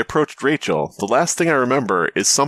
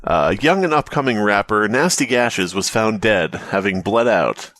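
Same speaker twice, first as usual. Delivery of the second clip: mock newsreader. Mock news report on the rapper.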